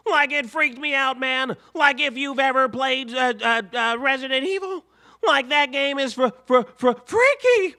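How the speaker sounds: Shaggy spooked by the game. Acted. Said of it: "not ready to do that damn voice".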